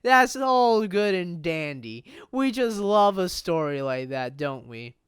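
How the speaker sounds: slow, mock-cheery drawl; sarcastic. Player commenting on the lawyer's plight, drawn-out sarcasm. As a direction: stretch the words out with heavy irony. Mock approval of a bad situation.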